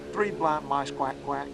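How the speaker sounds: slow chant, "quack, quack" punched at the end; cadence with two quacks. Shown as a demonstration. Teacher giving the alternate duck-call rhythm, slow chant. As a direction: add a second quack on the tail. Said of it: "you got the cadence of a hen mallard".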